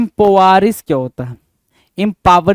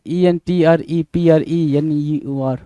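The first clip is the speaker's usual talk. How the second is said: slow spelling; slower than usual. Shown as a demonstration. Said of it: "एंटरप्रेन्योर की spelling".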